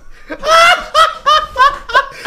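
risada estridente e solta; gargalhada aguda. Real, not acted. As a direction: racha o bico de rir. Cai na risada vendo ela.

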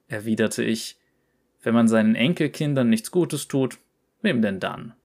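lively storyteller reading a cocky character's tale; story narration. A narrator's reading. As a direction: read it like a cheeky yordle telling his own adventure. Liest Rumbles Geschichte vor. (lebhaftes Vorlesen einer Geschichte)

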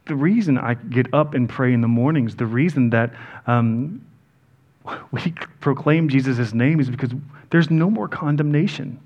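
shivering slightly while speaking; freezing cold. Real, not acted. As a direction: talk through the chill, freezing. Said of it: "Sorry, I'm freezing".

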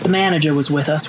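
lightly attempted Southern accent. Reader trying out for judging hosts, mild Southern accent. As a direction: read it aloud with a hint of Southern accent. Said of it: "read this next part in a Southern accent".

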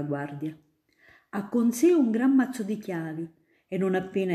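put-on a grown-up spinning tales for a child; student eagerly convincing little Ida; storytelling student. Student tells of custodian.

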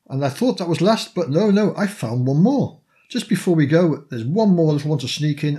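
bursting with a surprise extra; excited. Real, not acted. Surprise extra item found.

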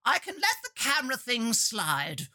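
a hint of a slow, prim stateswoman; lightly plummy stateswoman, water drawn out; Gillian Anderson as Thatcher. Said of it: "A bit Gillian Anderson from The Crown there".

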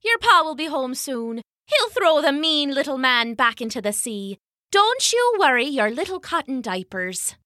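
light, high motherly voice; a mother covering for her baby; Una's sweet voice. Acted. Una comforting baby.

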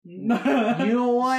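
stretched-out teasing question; slow drawn-out. Pretend. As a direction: drag every word slowly. Playful drawn-out remark.

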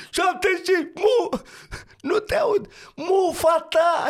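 imitated shouting match. Co-driver and driver shouting over the engine, hammed-up yelling. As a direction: shout the pace notes over the engine, then yell back. Imitating a rally car radio quarrel.

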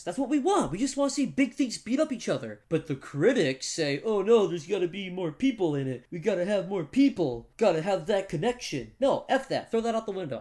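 excited rant. Real, not acted. Passionate rant about critics.

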